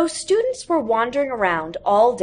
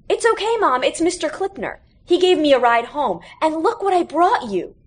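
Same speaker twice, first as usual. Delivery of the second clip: put-on much higher boy's voice, eager; young boy; 8 semitones higher, 3 dB louder than usual. A narrator's reading. Audie tells his mother about Mr Clipner, eager boy voice. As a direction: sound like a kid proud of his gift.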